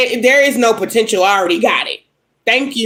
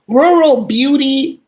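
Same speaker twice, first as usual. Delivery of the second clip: slow, laughing at own stumble on "Rural"; "Rural" drawn out slowly with a laugh; giggling at "Rural"; laughing through it; 3 semitones higher, slower than usual. Real, not acted. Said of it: "I know I'm butchering that word".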